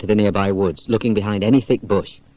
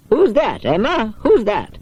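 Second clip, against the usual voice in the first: higher call down the stairs; calling from upstairs; 13 semitones higher, slower than usual. Acted. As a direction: call out from another room. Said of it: "a voice suddenly called from upstairs".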